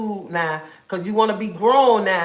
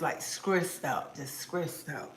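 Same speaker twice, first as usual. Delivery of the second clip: slow, much softer, worn out; weary stressed; 4 semitones lower, 11 dB quieter, slower than usual. Real, not acted. Telling viewer Lisa about her day, slow soft weary. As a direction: let the stress drain the voice. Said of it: "I was kinda upset earlier".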